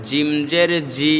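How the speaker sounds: 'জি' firm from the middle of the tongue; hard J. Shown as a demonstration. Teacher repeats for learners, 'জি' as hard j. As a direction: press mid-tongue for 'জিম' and 'জি'. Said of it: "মধ্যখান থেকে শক্ত করে".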